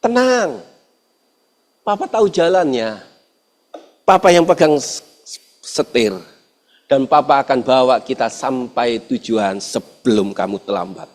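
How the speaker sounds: put-on calm a crying child; dad soothing his crying son, soft and gentle; tender reassurance. Father comforting crying son.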